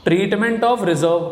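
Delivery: slow dictation pace, word by word. Shown as a demonstration. Teacher spelling out the topic name to students, very slow. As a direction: draw out each word, very slowly, as if writing it on the board. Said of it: "teacher slowly reading topic out".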